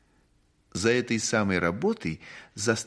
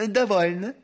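firm lady voice; 11 semitones higher, 6 dB louder than usual. Acted. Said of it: "сказала мать".

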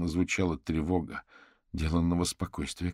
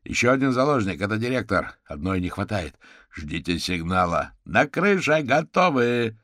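urgent officers yelling across the scene; distant shouts; 5 semitones higher, 7 dB louder than usual. A narrator's reading. Police shouting orders at the hostage scene, loud. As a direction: call out loud and fast. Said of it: "Карвер уловил обрывки их криков".

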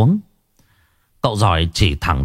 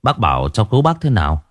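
deep voice; faster than usual. Acted. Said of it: "tôi mới trầm giọng".

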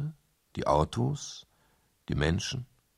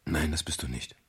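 whispered comfort; 5 semitones lower than usual. Acted. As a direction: gently whisper her doubts away. Comforting her on the phone.

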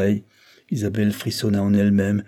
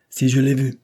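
indignant exclamation, louder and higher; exclaiming; 4 semitones higher, 4 dB louder than usual. A narrator's reading. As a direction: burst out, offended by the question. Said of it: "s'écria le comte".

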